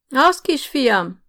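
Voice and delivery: put-on high, slow shriek of an old woman. A narrator's reading. Old aunt shrieking at the official, high and slow. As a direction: screech it out, stretched. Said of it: "visította Sarolta néni".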